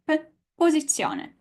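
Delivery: posizione with a dry p; no air on the p; Italian posizione. Shown as a demonstration. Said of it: "the same as an opera".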